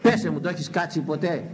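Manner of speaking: ordinary talk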